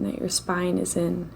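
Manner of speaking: normal talking voice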